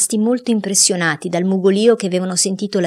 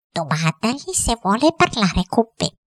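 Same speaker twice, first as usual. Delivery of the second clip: higher-pitched woman's order; imperious wife; 4 semitones higher than usual. Acted. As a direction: put on the bossy wife's voice, pitched up. Geltrude prepotente ordina al cuoco. (moglie prepotente, voce acuta)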